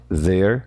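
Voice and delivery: There said with a silent E, ending on the R; American R. Shown as a demonstration. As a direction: stop on the R in There, American style. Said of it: "O E é mudo. A gente para no R no inglês americano". (There com E mudo, parando no R)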